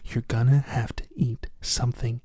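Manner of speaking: hushed, unhurried mock whisper; whisper in the ear. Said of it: "Whisper in his ear".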